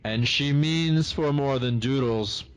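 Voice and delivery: dry sardonic quip, said slowly; bitter amusement. Acted. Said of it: "in, like, a wry voice".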